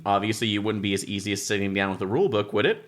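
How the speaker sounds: lightly performed reading of rulebook prose; rulebook read aloud. Acted. Reading the rulebook's wry passage aloud to the group. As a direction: read the book's wry text out to the table.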